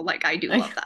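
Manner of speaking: earnest, really meaning it; sincere. Real, not acted. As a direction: say it like you truly mean it. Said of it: "but that was actually real".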